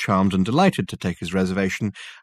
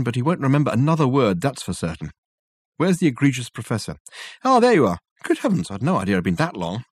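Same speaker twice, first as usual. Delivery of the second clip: a hint of Dirk's lively, self-pleased chatter; lightly voiced Dirk. Dirk boasting to Richard about the visit, lightly voiced. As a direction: tell the tale with a showman's relish.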